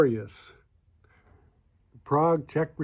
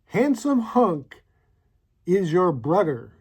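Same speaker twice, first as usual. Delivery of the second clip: reading the card out; 2 semitones higher, slower than usual. Shown as a demonstration. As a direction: savour each word of "Handsome hunk is your brother" as you read it off the card. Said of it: "It says".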